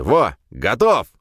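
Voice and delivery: sudden triumphant yell; joyful cry. A narrator's reading. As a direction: crow with glee. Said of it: "радостно вскрикнул Глеб".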